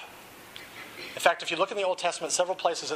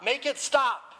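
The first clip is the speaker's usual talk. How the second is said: much higher, straining plea; strained anguished cry; 9 semitones higher, slower than usual. A narrator's reading. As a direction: let the voice crack upward in agony. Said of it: "began to scream in more anguish".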